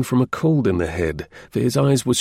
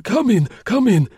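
put-on bustle him in like a frail old doorman; old man fussing over a late visitor; fussy old concierge; 9 semitones higher than usual. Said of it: "he added".

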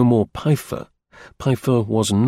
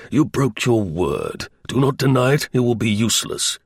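stern Prussian official. Acted. Slingsby playing the Prussian official to Pfeiffer, stern. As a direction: lay down the law coldly. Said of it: "he cried sternly".

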